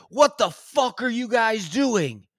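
high-pitched retold neighbour outrage; mock angry demand. Neighbour confronts guys digging in his yard, mock angry. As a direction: imitate an indignant homeowner.

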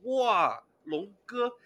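high, excited gasp of surprise; wow, act astonished at the piano; amazed friend. Retold or imitated. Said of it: "我一个同学来我家，一进门儿".

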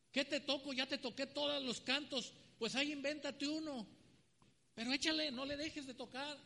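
a demanding king, only lightly acted; acted Saul. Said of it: "Qué hacía Saúl". (Saúl pide más música, apenas actuado)

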